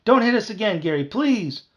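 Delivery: high, pleading whimper; loud, frightened pleading. A narrator's reading. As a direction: beg like a scared coward. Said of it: "Carl whimpered behind him".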